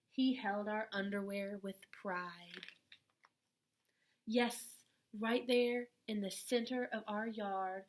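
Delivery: gentle storybook reading voice, unhurried; a kind teacher reading a letter aloud to children. Acted. Reads picture book to children.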